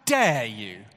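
high, loud hammed-up outrage; indignant retort. Preacher voicing an imagined indignant mother, mock outrage. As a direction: play the offended mother who never said it. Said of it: "She doesn't get indignant".

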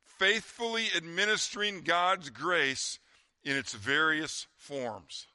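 slow, deliberate Bible reading; scripture reading. Real, not acted. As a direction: read the verse out slowly and weightily. Reads scripture aloud.

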